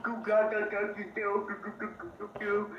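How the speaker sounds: put-on babbling like a baby; mock baby babble; baby talk. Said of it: "I'm a little baby".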